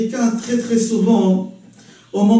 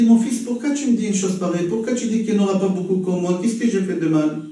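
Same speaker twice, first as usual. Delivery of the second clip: calm gentle reply; 3 semitones lower, faster than usual. Retold or imitated. Hillel answers the insult calmly.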